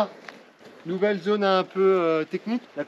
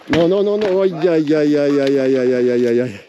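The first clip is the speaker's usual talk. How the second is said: rising alarm, then fading; anxious groaning; 4 dB louder than usual. Real, not acted. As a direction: wince aloud, non then aïe. Watching rider's mistake.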